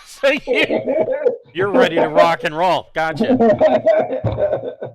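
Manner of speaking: high, loud, laughing through the words. Real, not acted. Game master amused by the player's weapons, laughing. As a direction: crack up while talking.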